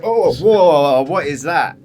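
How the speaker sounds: startled gasp of awe; surprised. Retold or imitated. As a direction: react as if shaken. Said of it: "You're all kind of like".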